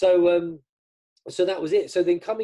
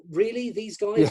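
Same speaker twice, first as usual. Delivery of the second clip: incredulous laugh; 7 semitones higher, 4 dB louder, slower than usual. Real, not acted. Laughs off being mistaken for stars.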